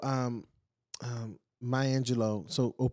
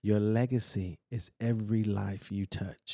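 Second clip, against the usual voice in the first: Maya Angelou's deepest voice. Retold or imitated. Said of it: "Maya says in her deepest voice".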